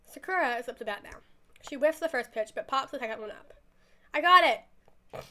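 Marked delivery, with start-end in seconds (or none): 4.1-5.2 long, loud, high fielder's call. Acted. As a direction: call for the ball, drawn out. Fielder calls for the ball.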